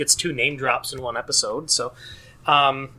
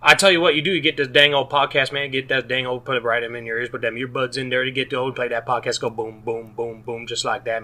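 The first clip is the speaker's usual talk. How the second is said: lightly voiced Southern mumbler, words run together; a hint of rambling Southern gibberish; Boomhauer. Host reading a listener's five-star review as Boomhauer, lightly mumbled Southern. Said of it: "That is Boomhauer".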